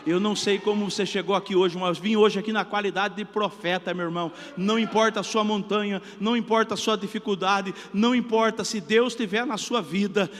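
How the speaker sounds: pregador em voz alta e forte, proclamando; pregação inflamada. Acted. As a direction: prega com força para a congregação. (pastor conclama a igreja a se levantar, pregando alto)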